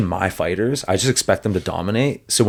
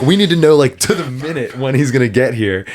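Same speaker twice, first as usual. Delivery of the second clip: imitated angry official; 4 semitones higher than usual. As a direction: insist on an exact time. Furious commission demanding timing.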